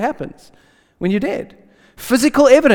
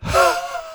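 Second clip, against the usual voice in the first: breathy sigh. Retold or imitated. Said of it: "just looks at them and goes".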